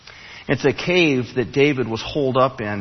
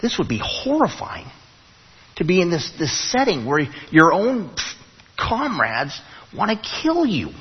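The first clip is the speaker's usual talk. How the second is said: imagined horror; 5 semitones higher than usual. Retold or imitated. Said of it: "I'm looking at this tight space going".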